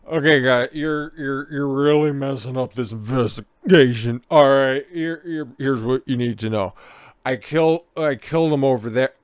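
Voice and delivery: put-on loud, rambling drunk blurting it all to cops; drunk confessing killer. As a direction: stagger through it like a proud drunk. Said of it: "to drunkenly tell cops".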